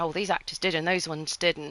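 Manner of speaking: usual speaking voice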